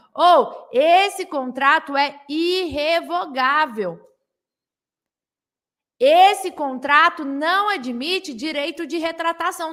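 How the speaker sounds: slow, deliberate, measured, word by word. Explaining contract wording, speaking slowly so the listener can write it down. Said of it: "Estou falando devagar".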